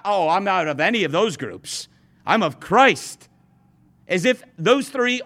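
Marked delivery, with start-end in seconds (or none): 0.0-3.3 snobbish. Retold or imitated. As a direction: sound superior, stretching each word. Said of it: "the most snobbish of all four".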